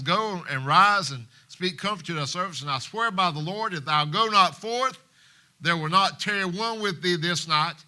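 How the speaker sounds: loud, firm ultimatum; stern warning. Acted. Joab warning David to go out, stern and loud. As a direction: press the warning home.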